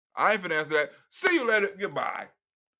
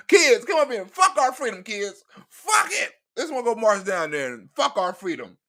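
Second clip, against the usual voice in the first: mock rallying call. Mock patriot rallying kids.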